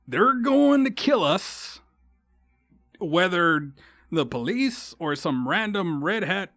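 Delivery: retelling his desperate warning to family; urgent alarm. Retold or imitated. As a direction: make them see the danger. Pleading with family about danger.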